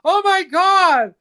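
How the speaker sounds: high, slow tearful gasps; mock crying woman. Woman beside him sobbing at the concert, high and slow. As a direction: squeal it out like she's overwhelmed. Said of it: "I just hear her go".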